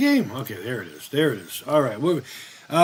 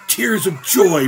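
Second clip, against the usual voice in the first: drawn-out, higher movie-quote delivery; quoted movie character; 4 semitones higher, 3 dB louder, slower than usual. Retold or imitated. Streamer quoting a film character's answer, acted out slowly.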